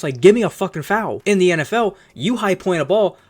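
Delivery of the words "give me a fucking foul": louder, higher mock holler at the refs. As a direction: ham up a player yelling for the call. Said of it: "they're hollering at the refs".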